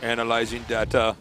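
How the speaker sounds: flat computer read-out voice; robot voice. Pretend. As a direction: announce it like a machine. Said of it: "That's a great robot voice".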